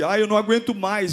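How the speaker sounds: self-pitying whine. Imitating a self-pitying kind of crying: mock self-pitying whine. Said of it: "aquele choro, é, vitimista de".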